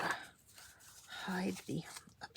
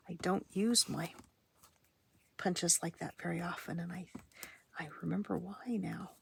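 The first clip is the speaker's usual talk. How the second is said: whispering; 2 semitones lower than usual. Real, not acted.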